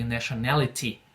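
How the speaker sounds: nationality with a crisp, struck T; British-style T. Shown as a demonstration. Teacher models the British-like T for students. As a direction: tap the T sharply in nationality. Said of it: "mais batido ali".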